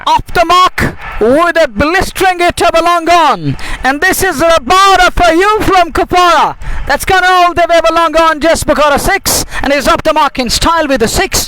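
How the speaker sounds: home run call. Real, not acted. English commentator calls the six.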